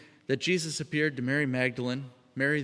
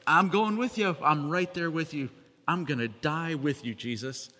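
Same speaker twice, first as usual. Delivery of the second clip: bursts out louder, then settles; eager loyal declaration; 2 semitones higher, 4 dB louder than usual. Retold or imitated. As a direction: start with a loud eager pledge, then calm. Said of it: "he's like".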